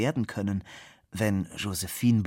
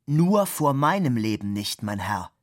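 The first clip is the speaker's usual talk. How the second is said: angry retort; 3 semitones higher, 5 dB louder than usual. Acted. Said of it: "rief Fabian und schlug ärgerlich".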